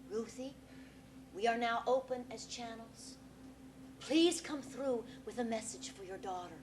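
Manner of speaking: hushed, solemn spirit invocation; séance medium. Acted. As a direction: call the spirits in reverently.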